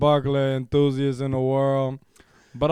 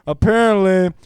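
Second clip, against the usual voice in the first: best voice. Pretend. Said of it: "I'm gonna read this in my best voice here".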